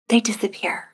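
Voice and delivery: whispered softly as the balloon vanishes. Shown as a demonstration. Guiding the listener as the thought disappears, whispered. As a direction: let it fade into a whisper.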